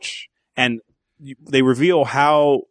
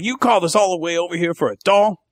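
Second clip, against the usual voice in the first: raised pitch on an indignant question; mock incredulous cops; 4 semitones higher than usual. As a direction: imitate cops annoyed at a wasted trip. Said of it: "the cops are like".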